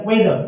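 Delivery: वेदर begun on a plain W; no H sound after the W in वेदर; silent H. Shown as a demonstration. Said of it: "यहाँ पर भी एच silent है". (वेदर में एच silent)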